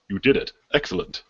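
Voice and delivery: lightly voiced formal quest giver; measured, understated in-character congratulation; corrected NPC voice. DM as quest giver congratulates returning players, lightly voiced formal approval. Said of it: "Wait, that's not their voice".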